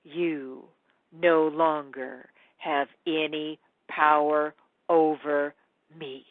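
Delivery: slow defiant line; triumphant girl. Retold or imitated. The girl finally defying the Goblin King, slow and defiant. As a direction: say it like breaking a spell. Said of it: "she says".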